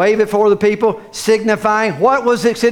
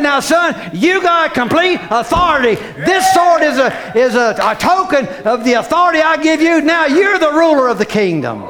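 king to his son; 3 semitones higher than usual. Retold or imitated. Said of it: "handed that sword down to his son and said".

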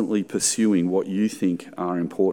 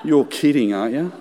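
exasperated inner monologue, louder and higher; annoyed grumble; 4 semitones higher, 3 dB louder than usual. Retold or imitated. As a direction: whine about being distracted, half-mocking yourself. Inner grumble, woman crying.

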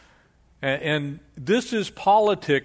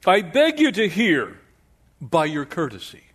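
Shakespearean actor; 2 semitones higher, 3 dB louder than usual. Acted. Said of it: "You can almost see a Shakespearean play out of this one".

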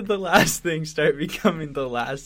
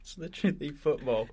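put-on English accent; 3 dB quieter than usual. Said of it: "I can't even do a good English accent".

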